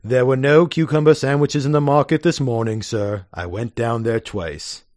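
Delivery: grave butler. Acted. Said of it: "Lane says gravely".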